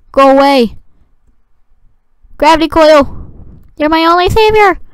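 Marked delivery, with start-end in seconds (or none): 2.4-4.8 high melodramatic plea; hammed-up high plea; mock pleading. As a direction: beg it like a hero will save you. Pleading with gravity coil again.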